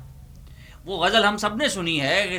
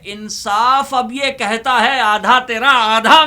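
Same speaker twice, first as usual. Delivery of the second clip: declaiming loudly; 6 semitones higher, 7 dB louder than usual. Acted. Mushaira recital, rising climax.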